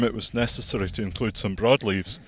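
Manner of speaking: a little winded from walking; out of breath. Real, not acted. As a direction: talk while slightly breathless. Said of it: "I can't believe I'm getting out of breath".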